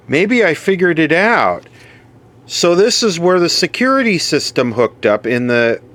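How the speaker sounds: thrilled to have figured it out; excited discovery. Real, not acted. Discovers the hotel alarm wiring.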